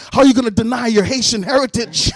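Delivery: mild mock outrage; mad. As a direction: imitate an indignant man scolding. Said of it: "got mad at me".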